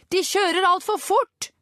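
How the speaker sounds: high, slow, stretched-out cry; distressed shout. A narrator's reading. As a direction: call out in alarm from the back. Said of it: "ropte Richard".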